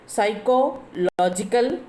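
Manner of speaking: psychological slowly split, stress on LOGICAL. Shown as a demonstration. Teacher showing students the stress, psychological with LOGICAL stressed. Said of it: "logical stressing".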